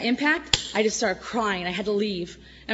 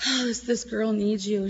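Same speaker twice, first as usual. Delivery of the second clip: tearful prayer. Retold or imitated. Praying for crying girl.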